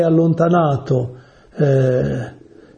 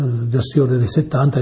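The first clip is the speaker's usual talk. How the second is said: usual speaking voice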